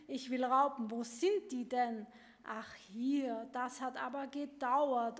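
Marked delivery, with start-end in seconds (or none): 0.1-2.0 loud demand. Acted. Chick shouting demands at parents.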